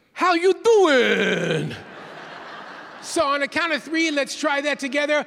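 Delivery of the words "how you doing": loud, fake, put-on New York accent. Speaker showing an audience a handshake greeting: fake New York City accent. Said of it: "you say in your best kind of fake New York City accent".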